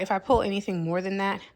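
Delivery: out of breath, pregnant; winded between words; gasping for air. Real, not acted. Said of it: "I apologize that I'm so out of breath".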